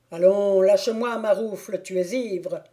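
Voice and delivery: loud curt order; stern stranger. Acted. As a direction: shake him off sternly. Stranger orders drunk to let go.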